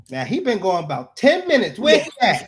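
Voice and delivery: mildly indignant, rising on the last question; mock impatient date. Waiting woman complains about her date, mock impatient. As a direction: gripe like a date kept waiting.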